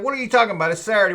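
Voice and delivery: panicky friend. Retold or imitated. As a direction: blurt it out in a panic. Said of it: "would panic at the sight of anything".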